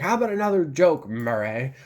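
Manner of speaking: mock outburst, rushed, dropping on "Murray"; Joker. Film fan retelling the show scene, mildly heated imitation. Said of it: "everything's heated and he's like".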